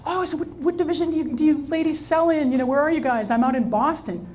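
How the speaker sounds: high, quick friendly mingling voice; light breezy cocktail chatter; lightly voiced self at a reception; retold chirpy small talk. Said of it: "I'm like".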